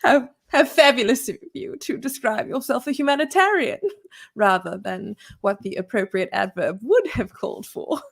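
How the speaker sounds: mock British pedant; British accent. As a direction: scold in a stuffy English accent. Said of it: "he did the English accent".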